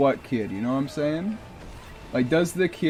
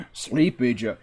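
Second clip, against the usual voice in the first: Trump impression; 3 semitones lower than usual. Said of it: "My Trump impression is terrible".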